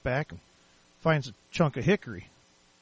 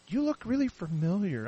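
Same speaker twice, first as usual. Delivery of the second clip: imitated stranger; 5 semitones higher, 4 dB quieter than usual. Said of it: "I get people now and then".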